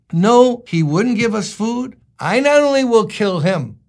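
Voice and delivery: mildly hammed-up indignation; simmering rage. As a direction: act out an overblown grudge. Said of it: "David now has been simmering with this thing".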